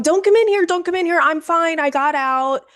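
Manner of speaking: high, urgent mock yell, easing down; high-pitched reenacted shout without full volume; retold screaming. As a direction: imitate hollering through a door to keep someone out. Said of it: "I'm still screaming. I'm going".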